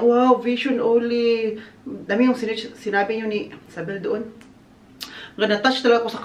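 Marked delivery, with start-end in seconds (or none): 0.0-1.6 quoted wow. Retold or imitated. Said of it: "Sabi niya".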